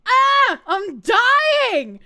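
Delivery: loud, high mock anguish; melodramatic, laughing-crying shout; hammed-up dying wail. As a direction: cry out as if it's killing you. Overcome after hearing stupid views.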